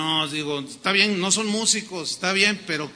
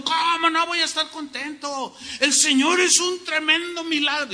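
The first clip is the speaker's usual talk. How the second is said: higher, excited reply; happy brother; 8 semitones higher than usual. Retold or imitated. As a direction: answer proudly, glowing with joy. Happy brother answers the pastor.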